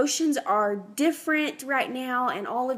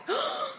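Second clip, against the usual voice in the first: sharp gasp; 5 dB quieter than usual. Retold or imitated. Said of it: "And I'm like".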